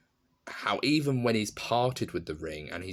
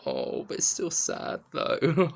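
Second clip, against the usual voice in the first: mock childish sadness; 7 semitones higher, 3 dB louder, slower than usual. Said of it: "And I thought".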